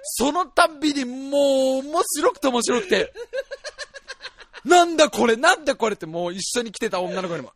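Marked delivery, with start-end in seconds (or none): 4.6-5.9 loud, high, baffled outburst; amused disbelief. Retold or imitated. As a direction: exclaim helplessly at an absurd sight. Acts helpless amused disbelief.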